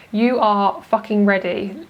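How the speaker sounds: fucking slowed and leaned on hard; You are fucking ready, with weight on fucking; stress on fucking. Real, not acted. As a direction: punch the word fucking, draw it out. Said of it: "Emphasis on the word fucking".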